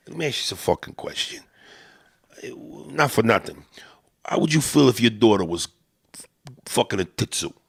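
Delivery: put-on light Italian-American street accent; a hint of Italian-American wiseguy; Italian-American guy. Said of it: "Italians that mean no harm".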